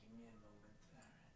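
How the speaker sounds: slurring a little tipsy. Real, not acted. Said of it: "getting a little tipsy".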